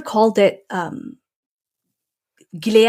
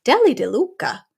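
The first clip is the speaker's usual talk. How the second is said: mock outraged bank app; 4 semitones higher than usual. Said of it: "And it was like".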